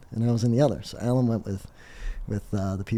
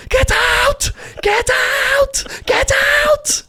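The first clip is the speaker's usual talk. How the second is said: high screaming mock Saudi maitre d'; hammed-up, full-blast order to leave; accented angry shout; 11 dB louder, much slower than usual. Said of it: "in their accent".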